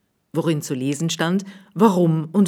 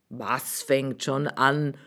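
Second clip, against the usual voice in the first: curious question; 2 semitones lower, 4 dB quieter, slower than usual. Acted. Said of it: "fragte der Hufschmied neugierig".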